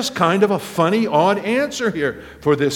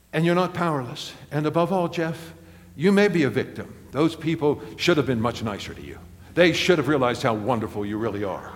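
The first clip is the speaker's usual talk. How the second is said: a hint of a tender, teasing God talking someone out of self-pity; God speaking gently; 3 semitones lower than usual. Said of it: "God just sneaks around the corner and says".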